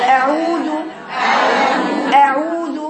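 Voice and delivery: "أعوذ" neither spread nor heavy, vowels sustained; oval-lipped fatha. Shown as a demonstration. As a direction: form a balanced oval mouth and hold "أعوذ". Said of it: "بتبقى عاملة الجزء كده بيضاوي كده".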